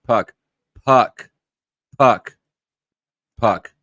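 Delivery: relentless attention call, word after word; insistent interrupting. Real, not acted. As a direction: repeat the name over and over to cut in. Repeats name to interrupt talker.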